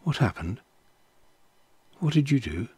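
soft, gentle questioning; gently. Acted. God asking the woman what she did, softly gentle. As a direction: ask quietly, without reproach. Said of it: "said gently to the woman".

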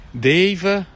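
loud high-pitched name, thrilled; calling out the name in delighted shock; excited call-out. Real, not acted. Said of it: "mi sono fermato in mezzo alla strada, eh, dal colpo".

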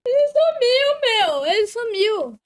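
high, loud panicked; scared horror game streamer. Real, not acted. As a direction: yell in sudden panic. Panicked search for monster.

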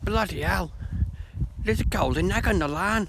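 high-pitched mock British exclamation; comic British accent, pitched well up; British guy accent. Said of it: "And the British goes".

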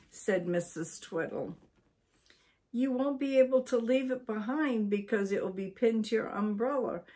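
lively read-aloud storytelling voice; story narration. A narrator's reading. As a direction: read it to listeners like a bedtime book.

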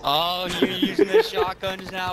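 raging gamer. Real, not acted. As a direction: yell it, outraged by the shotguns. Trash talk in a video game.

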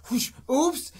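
high, loud fake oops; mock surprised oops. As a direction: squeal it like a clumsy accident. Acting out spilling butter.

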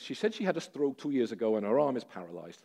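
put-on a light, clumsy Russian accent on the interpreter's words; mock Russian accent. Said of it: "Forgive my appalling Russian accent".

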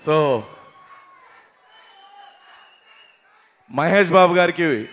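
loud, rousing crowd hype. Real, not acted. Comedian urging the crowd to cheer for their hero, loud. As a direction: whip the audience up. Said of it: "ఒక్కసారి hall top లేచిపోవాలి".

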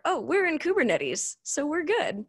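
high, sing-song mock of a clueless claim; high mocking parody of a smug engineer; mocking naive quote. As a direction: parrot the silly line in a high mocking voice.

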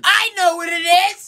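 excited gasp. Acted. Sudden realisation with gasp.

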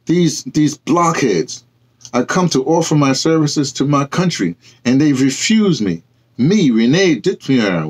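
mild indignation, pitched a little up; indignant. Acted. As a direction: spit out the insult with wounded pride. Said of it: "Renee says".

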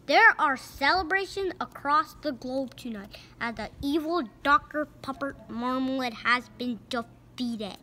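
brisk TV anchor read; mock news report. Narrator reading a news report to the listener. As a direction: announce it like breaking news. News-style opening of story.

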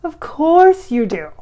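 high, loud, slow channeled voice; voicing Freddie. Freddie reassures her about braces, high and loud. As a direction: gush it out like a spirit guide reassuring her. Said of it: "And he says".

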